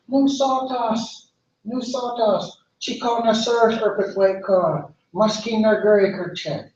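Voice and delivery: a tree too busy to bother; busy tan oak. Acted.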